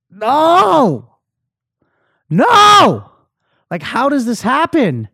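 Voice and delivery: high, loud wail of despair; anguished yelling. Retold or imitated. Drunk man breaking down outside his own party, yelling in anguish. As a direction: cry out in protest, voice shooting up. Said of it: "and I'm yelling".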